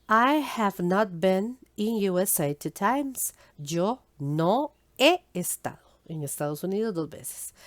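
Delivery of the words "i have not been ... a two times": slow model sentence. Shown as a demonstration.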